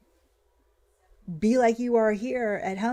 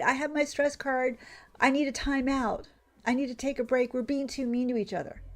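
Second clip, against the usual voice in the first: mock fragile recruit; 5 semitones higher than usual. Mocks recruit pleading with the enemy.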